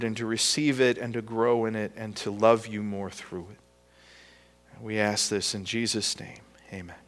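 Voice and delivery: soft, low close of a prayer. Real, not acted. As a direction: bring the prayer down to a hushed ending.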